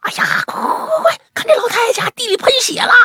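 high, excited squeal urging someone over; breathless high-pitched excitement. Retold or imitated. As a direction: gush it high and urgent. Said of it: "兴奋地说".

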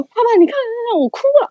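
high, loud plea through tears; crying yet half amused, urging dad to look; high tearful call to dad; teary call to dad. Retold or imitated. Calling dad while crying.

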